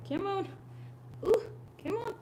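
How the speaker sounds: high, soft coax to the dog. Real, not acted. Owner softly coaxing her cowering dog, high.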